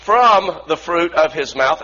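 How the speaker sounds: from punched and drawn out; stress on from. Real, not acted. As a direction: slowly repeat it, hitting from hard. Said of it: "from, not into, but out of".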